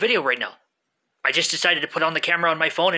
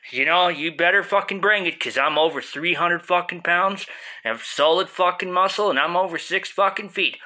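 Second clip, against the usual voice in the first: arguing with myself. Acted. Stoned voice boasts back.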